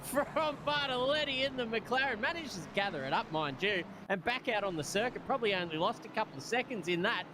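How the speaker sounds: live motorsport commentator; excited play-by-play. Real, not acted. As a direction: call the slip as it happens.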